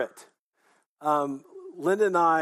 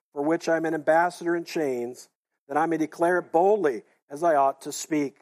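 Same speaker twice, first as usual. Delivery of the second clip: congregation reading scripture aloud together; many voices in unison. Real, not acted. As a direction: read it as one voice with the whole room. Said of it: "Let's read it aloud together today".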